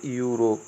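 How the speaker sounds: यूरोप as "yu-rop"; taught reading. Shown as a demonstration. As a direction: model यूरोप with an opening "yu". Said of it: "क्या बोलते हैं?". (यूरोप को "यू" से शुरू करें)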